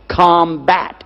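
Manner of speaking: COMBAT set apart as a key word; emphatic repeat. Real, not acted. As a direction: drive home the word COMBAT. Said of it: "Did you hear me?".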